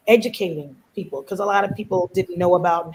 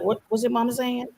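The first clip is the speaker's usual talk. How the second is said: quick, laughing question; laughing friend voice; 2 semitones higher, faster than usual. Retold or imitated. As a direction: mimic a puzzled friend through a laugh. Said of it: "they'd be like".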